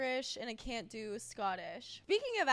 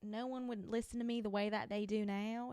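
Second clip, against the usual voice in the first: country accent. Shown as a demonstration. Host imagining talking like this all day, country accent. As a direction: slip into a mild country accent. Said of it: "talking with a country accent all day".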